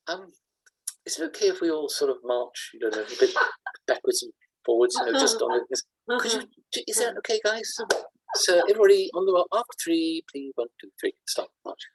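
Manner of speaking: mock timid sergeant asking nicely; overly polite sergeant. Sergeant major meekly asking the troops to march, mock timid. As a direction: ask the troops politely, as if unsure. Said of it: "And the sergeant says".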